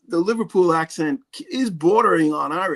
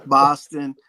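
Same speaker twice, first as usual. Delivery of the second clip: mock Boston pronunciation; Boston accent. Shown as a demonstration. Host echoing the ridiculous Boston accent, in a Boston accent. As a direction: say the city name in a Boston accent. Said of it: "that ridiculous Boston accent".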